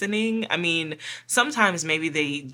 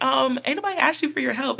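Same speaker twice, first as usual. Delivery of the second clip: higher, fast, sassy clapback; sassy retort; 8 semitones higher, 4 dB louder, faster than usual. Retold or imitated. Partner sassing the take-charge leader, mock sassy. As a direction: snap back with sass. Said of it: "you're just like".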